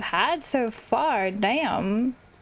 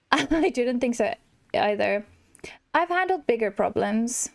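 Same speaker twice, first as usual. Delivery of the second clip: a hint of a slow, smug lion king; lightly voiced Scar; 2 semitones lower, slower than usual. Gamer reading Scar's lines to the player, mildly smug. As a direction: drawl it out as a lazy, haughty villain.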